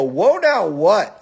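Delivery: re-enacted confrontational comeback; retold challenge. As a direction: throw it back as a challenge. Retells own challenge back.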